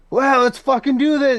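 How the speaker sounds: very high, excited, hyped-up yell. Describing people who talk in monotone, showing what they don't do: excited scream. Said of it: "they don't scream like".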